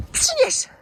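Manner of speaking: high-pitched "fetch" to the dog; high fetch command. Real, not acted.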